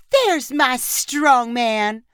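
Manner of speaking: put-on slow, lightly cooed baby talk; a hint of talking to a toddler. A narrator's reading. Photographer cooing at flexing dad: light baby talk. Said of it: "Leanne repeated in a baby voice".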